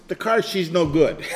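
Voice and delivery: lightly imitated French-accented grandpa; grandpa's verdict in a mild French accent. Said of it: "had the French accent".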